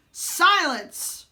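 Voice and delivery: sharp loud high command; boy commanding the prince to shut up. A narrator's reading. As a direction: cut him off hard. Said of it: "Jimmy commanded".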